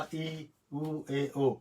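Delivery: slow, stretched vowel demo: i, o, e, o; drawn-out Japanese vowels. Shown as a demonstration. Teacher sounding out hiragana vowels for students, slow and drawn out. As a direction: sound out each Japanese vowel slowly and clearly. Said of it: "ہیرا گانا آ".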